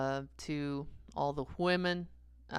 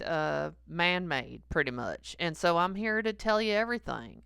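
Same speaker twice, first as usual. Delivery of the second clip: mock angry God; 2 semitones higher, 3 dB louder than usual. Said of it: "mad as hell".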